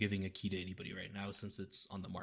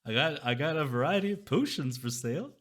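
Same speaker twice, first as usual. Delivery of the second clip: sly mysterious shopkeeper; 6 semitones higher, 7 dB louder than usual. Acted. Shopkeeper voice held.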